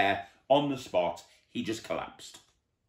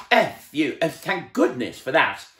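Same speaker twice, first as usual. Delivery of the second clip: relief; 7 semitones higher, 6 dB louder than usual. A narrator's reading. Relief after the scare.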